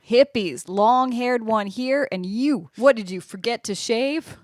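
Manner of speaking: lightly voiced southern barfly; southern accent. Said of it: "get out that southern accent".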